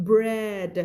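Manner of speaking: "bread" slowly, with a clear br blend; correct pronunciation. Shown as a demonstration. Teacher correcting a common mistake, "bread" carefully modelled. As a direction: sound out the r in "bread". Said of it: "พูดบ่อยมาก แต่ผิดเยอะนะ".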